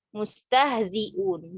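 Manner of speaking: Mustahziun said very slowly, stressing the zai; slow demo word. Shown as a demonstration. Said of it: "Zai sama hamzah". (Mustahziun dibaca pelan)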